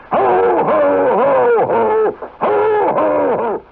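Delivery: high, loud jolly ho ho ho; belly-laugh it like Santa; hearty Santa ho ho ho. Acted. Santa laugh back on air.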